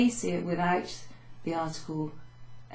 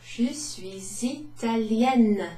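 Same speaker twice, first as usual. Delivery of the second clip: "Je suis italienne" higher, louder and slow with an Italian lilt; Italian accent; 4 semitones higher, 4 dB louder, much slower than usual. Shown as a demonstration. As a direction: play an Italian woman proudly. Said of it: "an Italian woman and I'm telling you".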